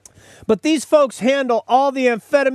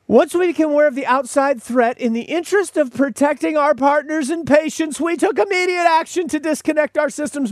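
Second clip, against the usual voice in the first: pitched up high, reading like a PR man; pompous statement; 6 semitones higher than usual. Retold or imitated. Host reads the company statement in a pompous PR voice. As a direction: puff up the corporate wording. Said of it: "here was the statement they issued".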